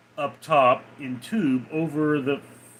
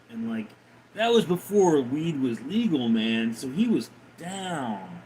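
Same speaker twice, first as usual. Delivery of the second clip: hippie voice; 3 dB quieter than usual. Acted. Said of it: "the hippie voice".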